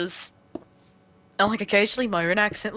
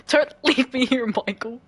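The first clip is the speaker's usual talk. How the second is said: high, hammed-up attempt at American; poor American accent; 5 semitones higher, 4 dB louder than usual. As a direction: plead in a bad American-British accent. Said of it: "attempt at an American accent".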